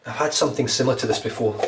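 nose whistling on each breath. Real, not acted. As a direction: talk while the nose whistles. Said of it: "My nose is whistling when I'm breathing in".

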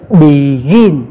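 "begin" with a low first syllable and a level, strong GIN; stress on final syllable. Shown as a demonstration. Teacher gives an end-stress example, level stressed last syllable on "begin". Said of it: "do vậy mà mình sẽ đọc ngang".

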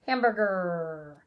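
slowish "Hamburger" leaning on the end; stretched word. Shown as a demonstration. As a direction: ease out "Hamburger" to its last R. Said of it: "It ends with an R".

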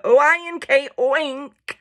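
"O I N K" as separate letters, then "oink" whole; sounding out oink. Acted. Cow teaching the pig, spelling out "O I N K, oink". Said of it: "He's sounding it out now".

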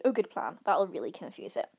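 mildly sarcastic quote; a touch of teasing sarcasm. Acted. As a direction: feign approval, lightly mocking. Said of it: "quite sarcastically says".

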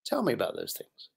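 low, gentle coaxing voice; calm and soft. Retold or imitated. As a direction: ease him into talking, softly. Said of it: "you calm it down".

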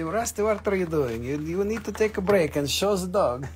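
gentle put-on voice for a pet's request; dog's voice. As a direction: speak up softly for the pleading dog. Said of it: "He say".

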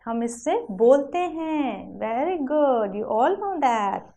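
sing-song classroom delivery with stretched key words; lilting children's teacher voice; teacher to young children. Shown as a demonstration. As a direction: present it to little ones, lilting.

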